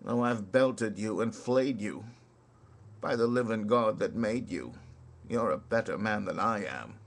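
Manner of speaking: rhythmic ballad recital with swinging beat; poem recitation. Acted. Reciting Kipling's soldier ballad to listeners, rhythmic recital. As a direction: recite it like a barrack-room ballad.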